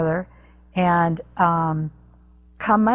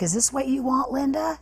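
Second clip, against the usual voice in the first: much higher, mock-taunting dad voice; imitating an angry father taunting his wife; dad's taunt; 9 semitones higher than usual. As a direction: sneer at Linda as the raging father. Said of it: "And he's like".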